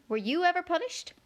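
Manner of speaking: high, fussy White Queen. A narrator's reading. Queen corrects Alice in a high fussy voice. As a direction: pitch the Queen up high and flustered.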